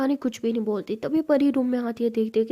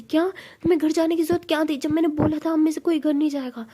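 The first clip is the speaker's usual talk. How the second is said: higher-pitched, rapid acted scolding; very angry; 5 semitones higher than usual. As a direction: demand an answer in mock outrage. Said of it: "बहुत गुस्से में बोलती". (बहुत गुस्से में डांटते हुए)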